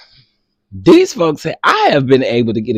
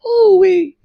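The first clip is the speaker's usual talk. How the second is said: 1 breathless whispered laugh. Real, not acted. Laughing to tears.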